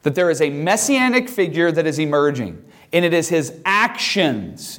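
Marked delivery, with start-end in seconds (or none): 3.0-4.8 "actions" drawn out slowly for emphasis; stress on actions. Real, not acted. Teacher marking the key word for students, slow stress on "actions". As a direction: lean deliberately on "actions". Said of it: "I'm emphasizing that word intentionally".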